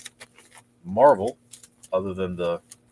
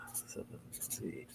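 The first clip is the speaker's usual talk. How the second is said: whispered under breath; 14 dB quieter, slower than usual. Real, not acted. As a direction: breathe it out to yourself.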